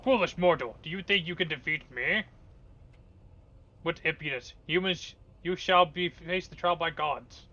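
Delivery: a god scorning mortals; dark lord. Acted. Boss taunts the party.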